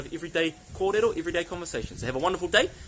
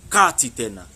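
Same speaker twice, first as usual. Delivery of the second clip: louder, lower, firm warning; parental telling-off; 3 semitones lower, 7 dB louder than usual. Shown as a demonstration. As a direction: rein in a child who went too far. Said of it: "listen to how I use it".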